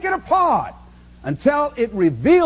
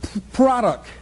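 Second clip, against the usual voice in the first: imitating stutter; much slower than usual. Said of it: "she stutters".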